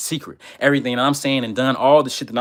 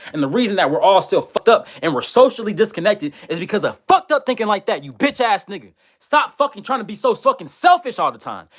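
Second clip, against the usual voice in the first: furious rant; 5 semitones higher than usual. Real, not acted. Ranting at a commenter who said do for thyself, furious and high-pitched. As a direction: tear into the commenter at full rage.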